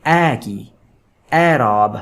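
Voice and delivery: اے and اعراب with an open 'ae', as in 'cat'; wide front 'ae' at the start of اعراب; majhool fatha sound. Shown as a demonstration. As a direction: demonstrate اعراب as 'AE-raab'. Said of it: "مجہول ہوتی ہے اس کی آواز".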